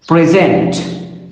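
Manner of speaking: preSENT, stressed on the last syllable; stress on second syllable. Shown as a demonstration. Lecturer repeating the verb for learners, second syllable of preSENT stressed. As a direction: say present as a verb, pre-SENT. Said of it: "if I'm using this word as a verb".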